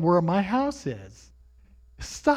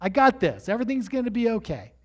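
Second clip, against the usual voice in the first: lightly voiced God, raised in pitch; higher, insistent fatherly reassurance; God's voice; 5 semitones higher than usual. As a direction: urge your son to trust you. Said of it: "It was God saying".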